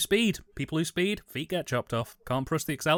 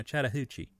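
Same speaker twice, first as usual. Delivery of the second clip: Southern accent; 2 semitones lower, 5 dB quieter than usual. Shown as a demonstration. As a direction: say Chattahoochee with a light Southern lilt. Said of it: "put a little southern lilt on it".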